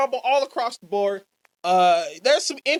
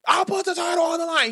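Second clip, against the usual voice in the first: higher, aggressive mock retort; mock angry challenge; 7 semitones higher, faster than usual. Jake answering the challenger, mildly aggressive and higher. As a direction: snap it back like a riled-up champ. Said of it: "He's aggressive and he's angry".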